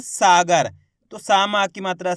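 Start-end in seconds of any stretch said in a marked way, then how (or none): 0.0-0.7 सागर with the first सा stretched long; drawn-out vowel. Shown as a demonstration. Teacher pointing out the vowel sign, सागर with stretched सा. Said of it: "खेच का उच्चारण हो रहा है".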